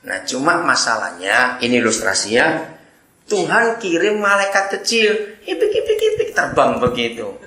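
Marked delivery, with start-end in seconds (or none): 5.4-6.0 very high squeaky flutter sound; tiny fluttering squeak. Acted. Tiny angel flies down, very high squeaky flutter. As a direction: make the little angel's wings squeak.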